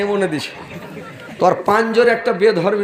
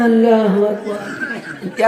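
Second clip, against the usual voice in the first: straining crowd reply; 3 semitones higher, much slower than usual. Retold or imitated. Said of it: "এর থেকে জোরে আর পারবো না". (জোরে জোরে টেনে, হাসতে হাসতে চিৎকার)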